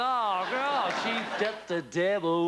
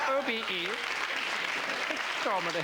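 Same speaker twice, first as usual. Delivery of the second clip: Dalek; 5 semitones higher than usual. Retold or imitated. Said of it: "She's like a Dalek".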